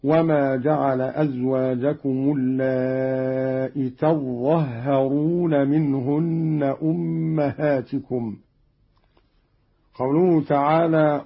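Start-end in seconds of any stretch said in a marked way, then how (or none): 0.0-8.4 تظهرون as tazzahharun, open ta, both middle consonants doubled; slow recitation, lean on the doubled ظ and ه in تظهرون with no long aa; doubled zha and ha. Shown as a demonstration. Teacher shows Qalun's reading, تظهرون with open ta and doubled consonants. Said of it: "وقرأ تظهرون بفتح التاء وتشديد".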